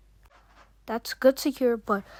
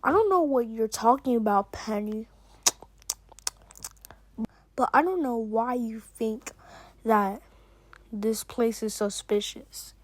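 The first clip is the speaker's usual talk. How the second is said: talking through a mouthful of food; words round a bite of food; mouth full. Acted. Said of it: "quit talking with your mouth full".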